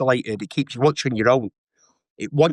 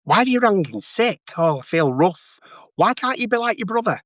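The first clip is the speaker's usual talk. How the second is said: mum nagging; 5 semitones higher than usual. Retold or imitated. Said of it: "And she'd go".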